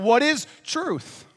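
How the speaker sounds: high, slow, drawn-out cry of a question; Pilate crying out. Retold or imitated. Pilate crying out to the world in a high, slow voice. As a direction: hold the question up high and let it hang. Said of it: "so he cries out".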